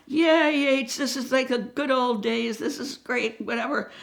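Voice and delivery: put-on thrilled like the good old days; imitating a delighted buddy; excited cheer. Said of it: "Mullen's going".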